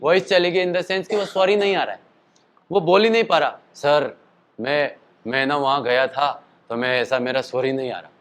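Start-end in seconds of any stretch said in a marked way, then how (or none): 3.7-8.1 heavy voice. Retold or imitated. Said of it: "उसकी ऐसी voice होगी भारी वाली".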